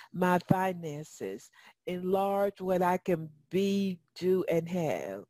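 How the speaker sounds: a gentle hint of praying it; lightly voiced prayer. Prays aloud in a slow, soft voice.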